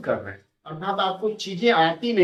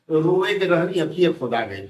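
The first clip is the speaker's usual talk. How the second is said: Bhojpuri saying. Shown as a demonstration. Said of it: "अब हमारे यहाँ कहा जाता है".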